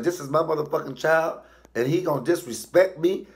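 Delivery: high, indignant mama rant; acted angry mother. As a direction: play an outraged mother complaining to police. Acts furious mama to police.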